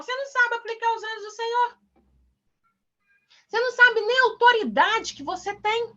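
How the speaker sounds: high-pitched exasperated telling-off; exasperated scolding. Real, not acted. Scolds pupils for not knowing authority. (bronca exasperada em voz aguda)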